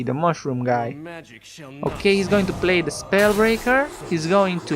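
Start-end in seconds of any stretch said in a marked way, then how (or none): 0.0-1.0 creepy low voice. Pretend. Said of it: "kind of creepy".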